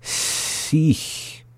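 "Sich" slightly stretched, long hissed start and end; slowly. Shown as a demonstration. Teacher repeating a hard example, "Sich" slowed down subtly. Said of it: "hard one to slow down".

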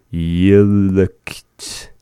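lightly voiced deep old man, drawn out; a hint of an old man's deep voice. Shown as a demonstration. Learner's guide saying I am sleepy, in a lightly put-on old man voice. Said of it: "deep voice".

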